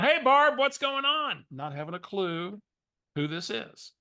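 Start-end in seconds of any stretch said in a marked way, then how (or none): 0.0-1.4 higher and louder fake-friendly hello to a stranger; faking familiarity. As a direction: greet her like an old friend you can't place. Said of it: "I acted like I knew who Barbara was".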